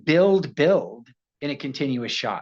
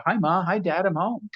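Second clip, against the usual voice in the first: higher-pitched, cheery homecoming call; stock homecoming line; 5 semitones higher than usual. Retold or imitated. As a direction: call out to the parents, lightly acted. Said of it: "they just think that I can do".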